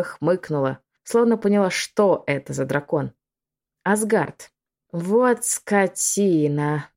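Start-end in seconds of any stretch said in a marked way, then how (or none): 3.8-6.9 relished hiss. Acted. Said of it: "смачно прошипела блондинка".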